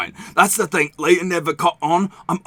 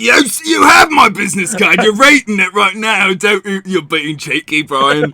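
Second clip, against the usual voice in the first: indignant; 4 dB louder than usual. Acted. Merchant protests at being teased.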